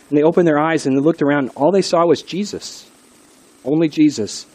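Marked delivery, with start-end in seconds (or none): none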